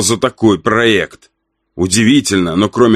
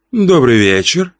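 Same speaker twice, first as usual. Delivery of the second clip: chirpy greeting; 4 semitones higher than usual. Acted. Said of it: "прощебетала блондинка".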